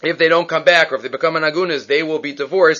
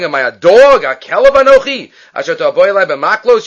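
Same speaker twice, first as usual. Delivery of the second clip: mocking giant's taunt; 6 dB louder than usual. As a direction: sneer it out like a giant who finds this absurd. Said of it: "Goliath starts laughing and saying".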